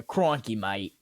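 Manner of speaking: British attempt slipping into Australian; mock Australian, out of hand; accidental Australian accent. Shown as a demonstration. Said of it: "it turns into an Australian accent".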